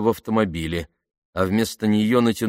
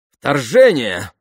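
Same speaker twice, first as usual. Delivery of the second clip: loud, high, drawn-out exclamation; exclaiming; 5 semitones higher, 8 dB louder, much slower than usual. A narrator's reading. Soldier reacts to urgent dispatch, exclaiming. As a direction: cry out slowly in raised astonishment. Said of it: "воскликнул солдат".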